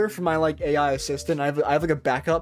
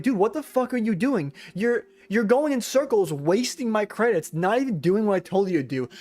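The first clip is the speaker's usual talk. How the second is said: retold yelling; 2 semitones higher than usual. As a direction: act out scolding a useless assistant. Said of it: "So I was yelling at it once".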